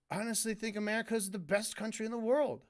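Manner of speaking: mean it, straight-faced and honest; in earnest. Retold or imitated. Showing how the YouTuber should have said it, sincerely and quickly. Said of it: "why wouldn't you say it in earnest".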